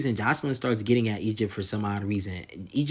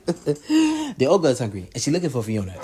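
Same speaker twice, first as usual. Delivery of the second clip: high, amused imitation of an insult; laughing mockery; 4 semitones higher, 4 dB louder than usual. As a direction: repeat the taunt while cracking up. Laughs repeating Jocelyn's ogre insult.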